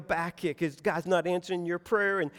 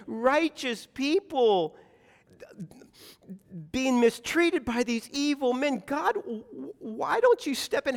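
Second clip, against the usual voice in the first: higher-pitched pleading with God; anguished protest; 4 semitones higher than usual. Acted. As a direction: demand answers from God, pleading. Acted protest prayer to God.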